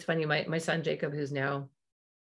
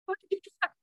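much higher, loud cry of pain; startled angry outburst; 5 dB louder, much faster than usual. Retold or imitated. Parent headbutted by accident crying out in pain. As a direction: yelp it in shock and anger. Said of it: "you're like".

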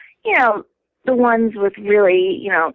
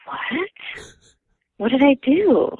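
confused protest; 5 semitones higher than usual. Retold or imitated. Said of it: "other people would be like".

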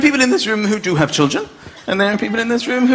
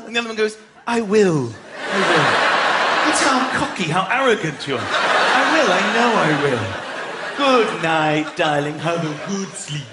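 smug sweet couple; 5 semitones lower than usual. Pretend. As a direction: coo goodnight like smug lovers. Smug couple saying goodnight.

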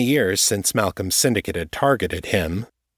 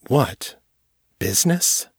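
rising higher in mocking disbelief; sarcastic question; 6 semitones higher than usual. Jared sneering back at the cop, sarcastic. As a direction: needle the cop with a scoffing question.

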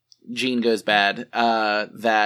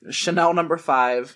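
laughing; 4 semitones higher, slower than usual. Real, not acted. Laughs reading funny mod name.

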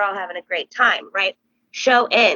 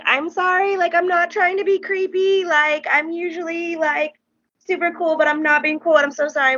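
high-pitched gushing apology; acted apologetic babble, pitched up; flustered apology; 8 semitones higher than usual. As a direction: re-enact an embarrassed fan excusing herself.

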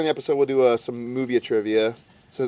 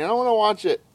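put-on higher-pitched child complaint; imitated whining; 6 semitones higher, faster than usual. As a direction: mimic a whining kid.

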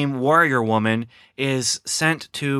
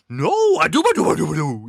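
high, hammed-up whiny Sandler voice, much higher; mock Sandler; 5 semitones higher than usual. Reviewer mocking Adam Sandler on set, high goofy whine. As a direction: squeal out a goofy protest.

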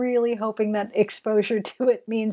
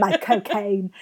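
put-on Michael Caine accent phrase. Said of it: "terrible nose cold".

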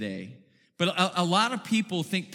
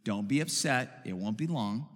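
softer, lower calm mother; quiet; 7 semitones lower, 6 dB quieter than usual. A narrator's reading. Mother calming her fussing girl in the store, quiet voice. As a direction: hush it gently to a fussing child. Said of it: "the mother said quietly".

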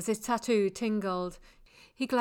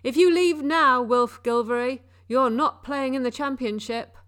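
much higher, much louder furious yell; barking gym coach; 3 semitones higher, 8 dB louder than usual. Acted. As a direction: bark it at a player walking off. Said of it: "Coach yelled".

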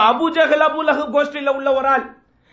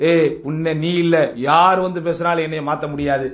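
punch dialogue; 6 semitones lower than usual. Retold or imitated. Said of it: "punch dialogue பேசுவோம்".

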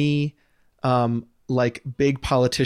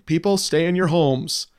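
Obama impression; 3 semitones higher than usual. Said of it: "Was that a good impression?".

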